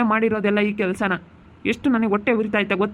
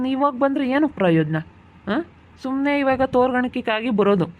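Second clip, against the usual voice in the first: raised, accusing reproach; bitter retort; 2 semitones higher than usual. Acted. Husband bitterly reproaching his mother-in-law for past neglect. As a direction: fling her own words back at her. Husband throws her words back.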